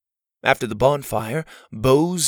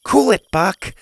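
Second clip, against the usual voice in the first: firm command; 7 semitones higher, 3 dB louder than usual. Acted. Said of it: "pulling back on the leash".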